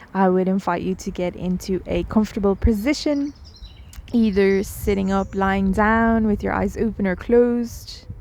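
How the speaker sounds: unhurried meditation guide with long pauses; guided meditation. Real, not acted. Guide inviting listeners to settle in, guided meditation voice. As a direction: gently lead them in, leaving space between phrases.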